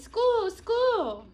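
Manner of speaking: high, loud squeaky fish chorus; little fish yelling; tiny fish voices. Acted. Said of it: "yelling in their tiny fish voices".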